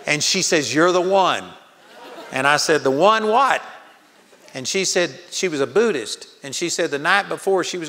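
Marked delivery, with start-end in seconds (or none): 0.7-1.4 higher, louder, wide-eyed exclamation; mock amazed recognition. Amazed woman recognizes him. 2.8-3.6 higher, louder, bemused asking; puzzled question. Retold or imitated. Puzzled reply in retold scene.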